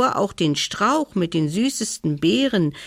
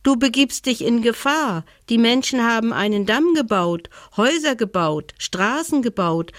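higher, fast little mouse voice with worry; dormouse warning; 5 semitones higher than usual. Acted. Dormouse warns the bear of the town, higher. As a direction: warn him as the tiny dormouse.

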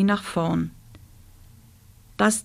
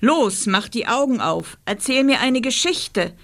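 snapping; 4 semitones higher than usual. Acted. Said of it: "schnauzte das Monster".

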